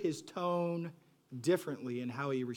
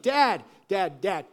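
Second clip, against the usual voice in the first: put-on high, loud nagging child calling dad; a child pestering a parent, calling over and over; 3 semitones higher, 7 dB louder than usual. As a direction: keep calling like a kid who won't stop. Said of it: "If you've been a parent".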